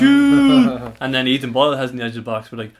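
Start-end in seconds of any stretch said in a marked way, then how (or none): 0.0-0.9 high, loud yell; yelled shoot. Retold or imitated. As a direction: shout it at the striker. Fans yelling at player.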